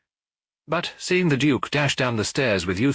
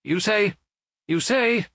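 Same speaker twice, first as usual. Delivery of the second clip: high-pitched, shocked repetition; stammering; 13 semitones higher, slower than usual. A narrator's reading. Hotel keeper turning on the duke in shock, stammering. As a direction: falter and restart, quaking with surprise. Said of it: "he stammered".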